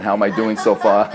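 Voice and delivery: asks through a chuckle; light laugh in the voice. Real, not acted. Joking check with audience.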